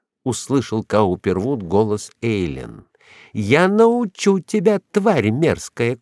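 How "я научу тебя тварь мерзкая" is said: high, drawn-out furious threat; enraged threat. A narrator's reading. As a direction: spit slow insults while attacking. Enraged woman beating her rival. (яростная угроза)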